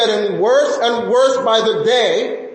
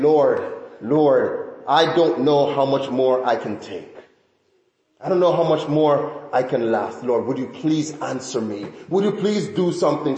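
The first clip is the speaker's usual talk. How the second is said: desperate plea; 8 semitones lower, 3 dB quieter than usual. Retold or imitated. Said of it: "crying out to God".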